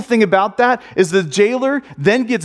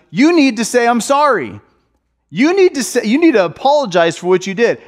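higher-pitched parental insistence; stern parent; 5 semitones higher than usual. Acted. Dad to kids who hit a sibling, firm insistence. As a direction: insist like a parent correcting a child.

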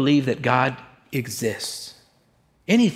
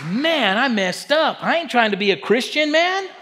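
panicked inner thought; 11 semitones higher, 4 dB louder, slower than usual. Retold or imitated. Retells panicked thought in prison.

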